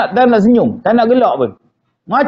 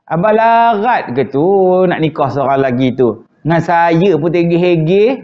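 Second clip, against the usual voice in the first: soft coaxing wife; 5 semitones lower than usual. Retold or imitated. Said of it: "dia main buah lembut".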